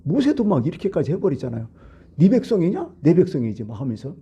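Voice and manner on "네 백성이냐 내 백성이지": 네 백성이냐 snapped out higher, like an indignant Moses; mock angry retort. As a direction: throw it back in a raised voice. Moses angrily claims the people. (모세가 백성을 두고 따지듯, 높은 목소리로 화내며)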